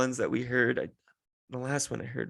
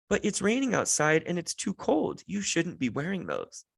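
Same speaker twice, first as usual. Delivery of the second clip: lightly imitated scolding little kid, higher at first; a hint of a bossy small child; toddler voice; 5 semitones higher than usual. Toddler tells dad off, lightly voiced child. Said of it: "two and a half year old kid".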